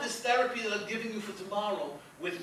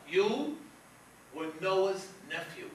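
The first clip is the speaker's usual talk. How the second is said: psychic reveal; 5 dB louder, much slower than usual. Acted. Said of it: "I'm getting another".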